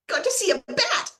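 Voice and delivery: high-pitched little squeal of delight; gleeful excitement. Retold or imitated. Gleeful retold reaction to bat.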